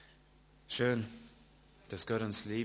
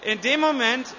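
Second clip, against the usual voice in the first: irritated footballer; 5 dB louder than usual. Acted. Footballer brushing off wife.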